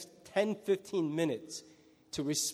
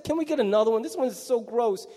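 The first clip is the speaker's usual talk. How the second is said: put-on whiny kid; 3 semitones higher than usual. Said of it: "exactly what's gonna".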